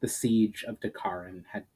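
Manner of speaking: measured, even storybook reading; story narration. A narrator's reading. Audiobook host reading a fantasy chapter to listeners, steady narration. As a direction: carry the listener through the siege chapter.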